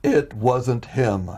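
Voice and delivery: slow, deliberate words with understated humor; imitating God's wry, measured reply; amused divine voice. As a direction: say it very slowly, gently amused. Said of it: "humor in this tone".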